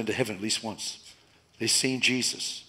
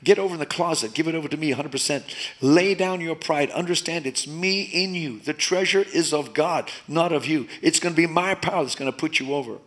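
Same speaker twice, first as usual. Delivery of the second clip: voicing God; 4 semitones higher than usual. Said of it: "And God says".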